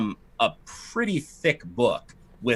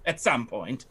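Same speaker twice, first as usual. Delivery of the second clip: a slightly raised, haughty lady's voice; fussy noblewoman; 7 semitones higher than usual. Acted. Lightly raised voice as the lady fretting to the party about her estate. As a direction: play the put-upon aristocrat lamenting her estate. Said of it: "She says".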